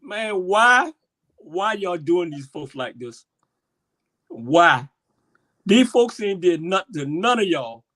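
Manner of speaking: real impassioned pleading, bursts of loudness; emotional. Real, not acted. Demanding why they mistreat these folks, emotional. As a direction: plead with them, hitting the questions hard. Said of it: "I'm getting emotional".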